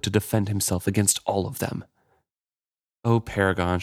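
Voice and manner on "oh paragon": lightly hoarse plea; a touch of rasp on "Oh, Paragon". Acted. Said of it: "she said hoarsely".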